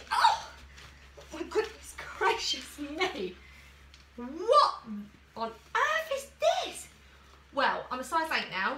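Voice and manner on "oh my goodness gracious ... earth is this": a loud, high yelp, then a slow, amazed exclamation; be truly startled by how small it is; shocked. Real, not acted. Vlogger discovering a swimsuit is far too small, loud shocked exclamation.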